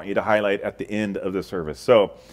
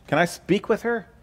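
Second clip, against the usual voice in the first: lightly voiced chirpy salesman, higher; a hint of a cheerful cold caller; telemarketer; 8 semitones higher than usual. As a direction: salesman calling a house.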